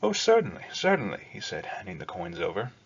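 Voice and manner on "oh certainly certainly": high, smiling fawning eagerness; pitched way up, sweet and eager to please; fawning smile. Acted. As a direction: charm the girl with a gushing yes. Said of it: "gave her his best smile".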